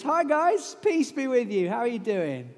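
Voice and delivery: bright, chummy greeting; casual Jesus. Acted. Jesus dropping in on frightened friends, breezy and chummy. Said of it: "It's Jesus".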